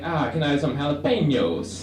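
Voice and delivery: overdone fancy Spanish-ish jalapenos; trying too hard. Retold or imitated. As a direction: put on a showy accent for jalapenos. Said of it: "I don't wanna try too hard".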